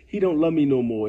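a hint of a sad girlfriend's complaint; mock heartbroken title. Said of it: "she could be like".

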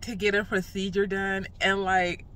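talking with a numb face; numb mouth. Real, not acted. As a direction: speak through a numb, swollen cheek. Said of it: "that's why I'm gonna be sounding crazy in this video".

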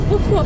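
mock dog woofs. Imitating the dog barking.

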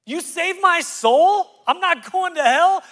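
ecstatic, can't-believe-it praise; overjoyed disbelief. Retold or imitated. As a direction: gush like someone just rescued. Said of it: "the person's like".

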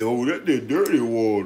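slow, dopey movie-quote voice; Professor Klump impression. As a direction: drawl it like a slow-witted character. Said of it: "And he said".

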